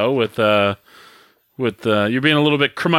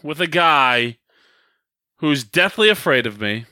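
mock wrestling promo, calling out a rival; deliberate grievance, pausing after each accusation; dramatic mock call-out with pauses; hot and heavy. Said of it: "hot and heavy here".

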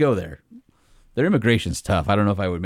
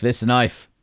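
the Crocodile Dundee knife line in a mock Australian accent. Shown as a demonstration. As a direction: say knife the Aussie way, lightly hammed. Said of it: "you should do an Australian voice".

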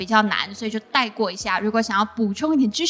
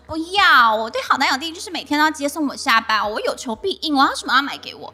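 put-on demanding girlfriend; 4 semitones higher than usual. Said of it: "但是其他人会说".

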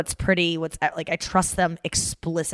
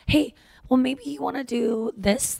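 gentle; 7 semitones higher than usual. Retold or imitated. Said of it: "very gently tell me".

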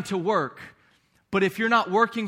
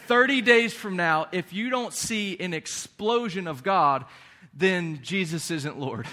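infomercial. Pretend. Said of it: "sound like an infomercial now".

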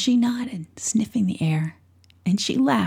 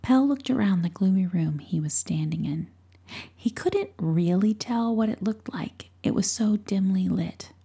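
whispered story. A narrator's reading. Narrator whispering a bedtime tale to a listener. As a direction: hush it like a secret story at night.

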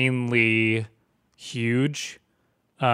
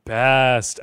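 sarcastic praise; 3 dB louder, much slower than usual. Pretend. Sarcasm after label criticism.

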